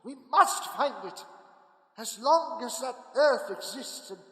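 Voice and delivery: loud, driven call to action; urgent rallying cry. Acted. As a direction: rouse the men to hunt. Van Helsing rallying the men urgently.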